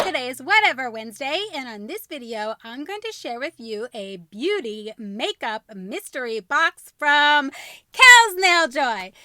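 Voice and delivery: loud, upbeat intro read, slowing at the end; vlog intro. Acted. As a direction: announce the episode brightly.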